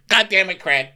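high, loud burst of frustration; exasperated outburst. Pretend. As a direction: blurt it out, fed up.

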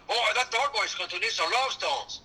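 Cuban accent mimicking Al Pacino, laughing; hammed-up Cuban accent like Pacino; cartoon Cuban accent. Shown as a demonstration. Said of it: "cartoon version of the Cuban accent".

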